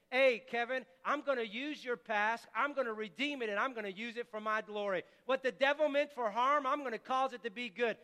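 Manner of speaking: encouraging God's voice. Acted.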